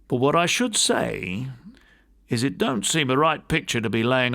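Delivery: lightly voiced deferential old servant, plain-spoken; a hint of a humble college servant answering his master. Servant Robert speaks to gentlemen.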